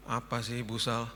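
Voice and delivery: mock-drowsy, drawn-out question; sleepy. Pastor answering housekeeper's knock, sleepy and slow. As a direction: answer the door half asleep, slowly. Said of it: "dengan ngantuk-ngantuk gitu".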